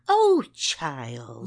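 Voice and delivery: N=Wynn/character; condescending Wynn. Retold or imitated. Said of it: "I hate the way she says".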